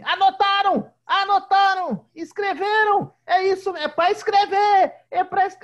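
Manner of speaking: high and loud, barking orders at the class; a girl playing teacher, shouting at pretend pupils; shouting little teacher. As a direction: yell instructions like a strict teacher. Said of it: "e aí falava assim".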